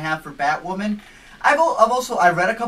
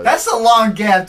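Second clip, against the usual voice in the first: laughing, louder and higher; amused laughter; 6 semitones higher, 9 dB louder, slower than usual. Real, not acted. Co-host reacts to a film gap, laughing. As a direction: say it through a burst of laughter.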